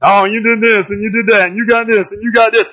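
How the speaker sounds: lightly mocking sing-through list; mocking a little. God mocks the enemy's list of deeds, lightly. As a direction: tick off each boast with mild mockery. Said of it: "he mocks him a little bit".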